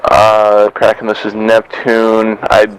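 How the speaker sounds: tinny radio transmission; crackly military radio. Real, not acted. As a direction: voice over a squad radio. Radio call from another squad.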